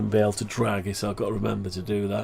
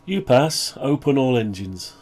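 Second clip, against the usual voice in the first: louder clear command to the machine; 3 semitones higher, 3 dB louder than usual. Shown as a demonstration. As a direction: say it as a spoken order. Repeating command to computer.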